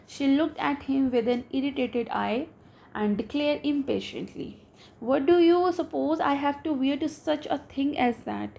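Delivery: slow, careful reading aloud of a story. A narrator's reading. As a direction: read each English word out slowly for the class. Reads the English story slowly.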